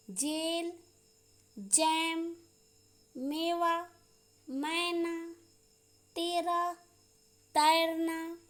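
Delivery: "जेल, जैम" apart, held ए against open ऐ; vowel contrast drill. Shown as a demonstration. Teacher practising ए and ऐ with pupils, careful dictation. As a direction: sustain the vowels in "मेवा, मैना", pausing between words. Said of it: "ए और ऐ का उच्चारण".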